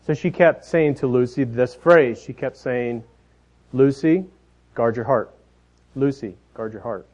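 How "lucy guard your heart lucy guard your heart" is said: put-on soft, patient mom coaching her toddler; mother's gentle reminder. Mom patiently coaching toddler Lucy, gentle reminder. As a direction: coax her, calmly, lightly imitated. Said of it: "that tone in a mother's voice".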